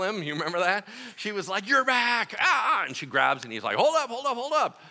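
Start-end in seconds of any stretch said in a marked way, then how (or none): 1.7-2.8 higher, thrilled gasp of recognition; excited cry. Retold or imitated. Mary Magdalene cries out to risen Jesus, thrilled. 3.8-4.8 higher, quick playful brake; playful hold up. Retold or imitated. Jesus fending off Mary's tackle, playfully high.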